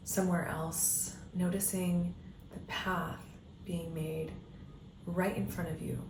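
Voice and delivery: calm meditation guiding with long pauses; guided meditation. Acted. Coach leading listeners down an imagined path, guided meditation voice. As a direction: guide them gently inward, leaving space between phrases.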